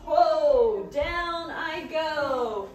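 excited cry going down the hill; whee, racing down on a sled; sledding downhill. Acted. Acting the sled ride rhyme.

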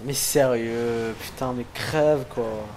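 slow, drawn-out exasperation; frustrated. Real, not acted. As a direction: plead at the screen in frustration. Frustrated at the unkillable enemy.

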